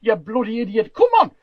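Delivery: high, loud Geordie tannoy announcement; Geordie accent. Acted. Warning pubgoers that it's curfew, loud Geordie accent. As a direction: holler orders in broad Geordie, pitched high. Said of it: "that's my best Geordie accent".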